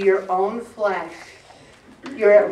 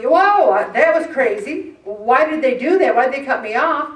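loud, higher startled outburst; startled driver; 3 semitones higher, 5 dB louder than usual. Retold or imitated. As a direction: jump at the near miss. Acted driver reacting to cutoff.

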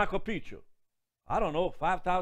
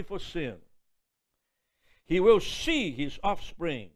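scripture reading; 3 dB louder than usual. Acted. Preacher reading Isaiah to the congregation, solemn. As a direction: read it out like holy writ.

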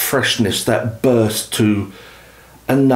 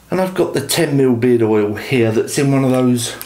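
short of breath while talking; breathless, gasping between phrases. Real, not acted. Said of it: "Excuse me, very out of breath".

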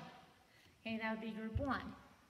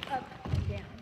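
called out loud on the count; 10 dB louder than usual. Shown as a demonstration. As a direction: shout the move like a cue. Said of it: "I'm gonna do it with a foot".

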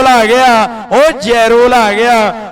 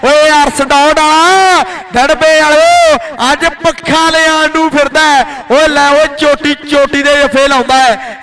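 rapid-fire kabaddi play-by-play; frantic rural sports commentary. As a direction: call the match live, hyped. (ਜੋਸ਼ੀਲੀ ਕਬੱਡੀ commentary)

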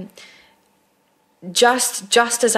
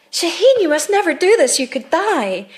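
mock stern director; 9 semitones higher than usual. Director telling off Shaheen for sneezing, mock stern. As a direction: play the director, dead serious over a sneeze.

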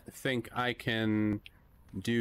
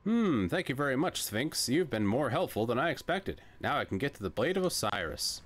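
earnest adventure hero, lightly voiced; adventurous hero voice; 6 semitones higher than usual. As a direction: narrate like a bold explorer.

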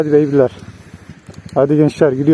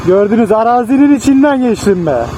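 proud and excited; 6 semitones higher than usual. Real, not acted. Proud after the hard ride.

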